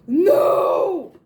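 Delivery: high, loud squeal of disbelief; thrilled scream. Real, not acted. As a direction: shriek with delight. Reaction to the gorgeous item.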